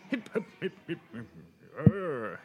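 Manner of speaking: very high British chirps ending in a growl; hammed-up British noises; mock British person. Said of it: "I'm miming a British person".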